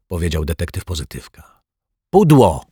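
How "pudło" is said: an excited whisper almost turned into a shout; loud whisper-shout. A narrator's reading. Kids hiding from the detective correct his guess in a near-shouted whisper. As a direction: nearly yell it but keep it a whisper. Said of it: "prawie że krzyknęli Zuzia i Dominik".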